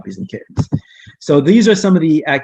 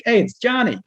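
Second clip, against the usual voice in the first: a higher, excited call of a classmate's name; kids calling out; 11 semitones higher than usual. Retold or imitated. Kids in class calling out as Johnny is spotted, excited.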